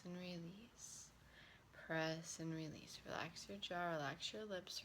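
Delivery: unhurried meditation voice with long pauses; guided relaxation. Acted. Relaxation teacher leading listeners through hand and breath work, guided relaxation. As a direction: guide them gently through each step.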